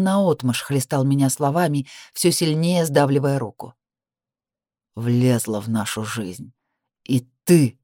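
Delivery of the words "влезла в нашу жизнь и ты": low slow menace. A narrator's reading.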